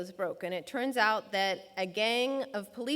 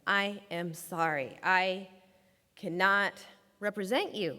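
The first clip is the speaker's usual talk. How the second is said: slow firm apology; 3 semitones lower than usual. Retold or imitated. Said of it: "And I'm like".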